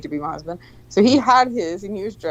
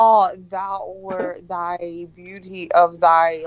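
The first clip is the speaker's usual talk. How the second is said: mock old English; much slower than usual. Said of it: "One of your old text messages to me".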